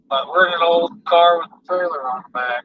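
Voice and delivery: jostled by rough road; talking over car bumps; on a bumpy road. Real, not acted. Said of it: "Sorry it's so bumpy".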